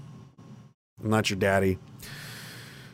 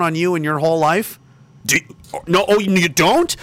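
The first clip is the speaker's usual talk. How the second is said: real anger, hurled at the listener; angry shouting; 5 semitones higher than usual. Real, not acted. A ranter shouting down critics on the internet, furious.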